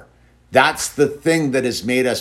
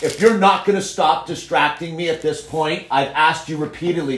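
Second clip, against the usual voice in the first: firm no-nonsense telling-off; big dog voice; 5 semitones higher than usual. Real, not acted. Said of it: "Now I gotta bring out the big dog voice".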